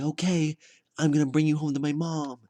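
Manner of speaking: high, loud, hammed-up joy; mock elated. Groom-to-be taking her home to mom, mock elated. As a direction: announce it proudly, pitched high and loud. Acted happy reply to accepted proposal.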